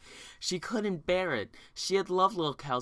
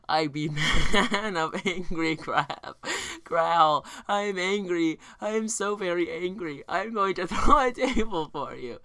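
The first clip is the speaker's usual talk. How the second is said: mock angry growl. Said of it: "Google Translate reading".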